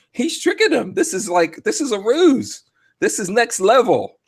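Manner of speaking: high-pitched mocking imitation of believers; mock Trump defenders. Host mimics supporters defending Trump's strategy, high mocking voice. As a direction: pitch it way up, parodying their excuses. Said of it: "everyone's like".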